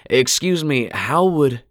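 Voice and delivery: he can't follow the stranger; confused husband. A narrator's reading. Gino confused.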